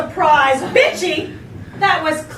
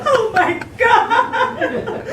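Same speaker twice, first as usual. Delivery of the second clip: slow, higher mock alarm; sudden alarm; 5 semitones higher, much slower than usual. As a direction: gasp it out as if struck by dread. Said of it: "she said in sudden alarm".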